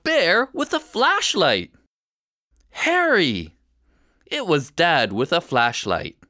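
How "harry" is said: relieved call. Acted. Dad finds lost boy.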